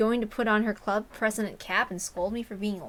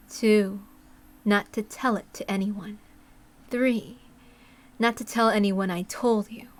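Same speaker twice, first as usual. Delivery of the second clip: louder, deliberate conditions; Takano voice; 3 dB louder, slower than usual. Acted. Takano setting terms for the boy, deliberate and loud. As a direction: lay down the rules like a secret pact.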